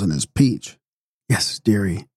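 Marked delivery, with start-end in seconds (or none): 1.3-2.1 put-on drunk with hiccup. A narrator's reading. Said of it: "went on Amy with a hiccup".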